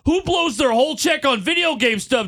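wow, tell me everything; astonished reaction. Retold or imitated. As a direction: imitate someone floored by the news. Voicing Billy's astonished reaction.

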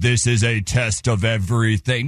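mock official broadcast, slow; solemn mock emergency announcer; government announcement voice. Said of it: "It was like".

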